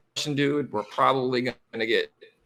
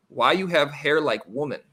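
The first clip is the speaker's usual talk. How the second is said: imitating a Russian man's broken English; mock Russian-accented English, lightly put on. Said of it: "in pretty broken English".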